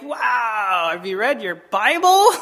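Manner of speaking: drawn-out "wow" in mock disbelief; played-up astonishment; retold shock. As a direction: ask it incredulously. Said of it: "I was in shock".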